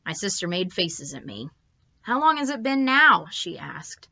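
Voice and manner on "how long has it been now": put-on little girl voice. A narrator's reading. Little sister asks again.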